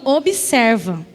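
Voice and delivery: low, very slow divine command; God's voice. Retold or imitated. God tells her to watch, slow low command. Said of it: "e o Senhor falando".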